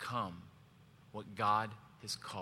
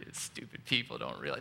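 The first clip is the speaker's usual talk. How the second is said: mock rude remark. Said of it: "wouldn't it be pretty rude of me to go".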